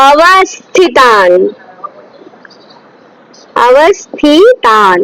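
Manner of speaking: অবস্থিতান drawn out very slowly, each syllable apart. Shown as a demonstration. Teacher slowly models অবস্থিতান for students. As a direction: spell অবস্থিতান out slowly for the class. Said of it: "বস্থিতান লেখা আছে".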